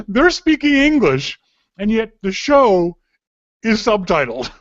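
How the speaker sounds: giggling while telling the absurd bit; laughing. Real, not acted. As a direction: laugh through the words in amused disbelief. Laughing at subtitled English show.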